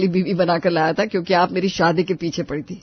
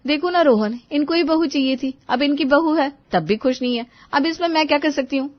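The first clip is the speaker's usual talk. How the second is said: put-on higher-pitched young wife protesting; higher, aggrieved bahu voice; put-upon daughter-in-law; 8 semitones higher, 3 dB louder than usual. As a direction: appeal to your husband in a higher voice. Daughter-in-law defends herself to husband.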